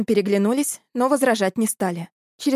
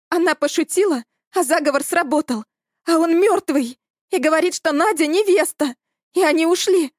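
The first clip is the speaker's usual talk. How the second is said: high, louder panicked rush; frantic; 7 semitones higher, 3 dB louder than usual. A narrator's reading. Panicked Elya blurts to the boys what happened, high and shaky. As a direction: blurt it out, barely holding together.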